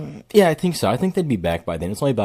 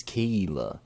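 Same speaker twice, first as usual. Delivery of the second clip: Kayla as KEE-la, Maine accent; Maine-accented Kayla with long ee; 3 semitones lower, 4 dB quieter than usual. Shown as a demonstration. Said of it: "that main accent says Kayla".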